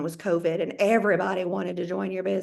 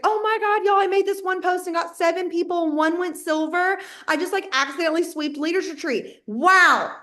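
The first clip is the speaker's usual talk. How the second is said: much higher, bubbly bragging teammate; gushing; 6 semitones higher than usual. Retold or imitated. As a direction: squeal about your wins like a giddy newcomer. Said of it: "And she's like".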